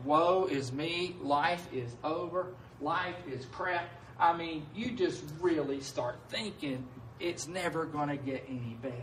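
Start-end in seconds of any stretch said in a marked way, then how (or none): 0.1-3.8 mock self-pity. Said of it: "wallow in that self-pity".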